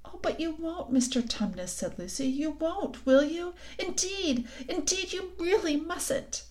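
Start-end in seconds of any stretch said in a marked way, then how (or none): 0.1-1.7 put-on little girl voice, higher and softer, begging; a lightly voiced small girl coaxing her friend; Lucy pleading. Lucy begs Tumnus not to betray her, soft high plea. 2.3-6.4 put-on little girl voice, higher and softer, begging; a lightly voiced small girl coaxing her friend; Lucy pleading. Lucy begs Tumnus not to betray her, soft high plea.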